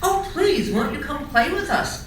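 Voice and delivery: high, sweet begging voice; pleading. A narrator's reading. Rabbits beg Charlie.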